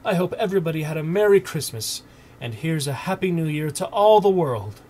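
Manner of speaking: fast, loud, high happy wishes; joyful excitement. A narrator's reading. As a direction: burst out with glee. Scrooge overjoyed on waking.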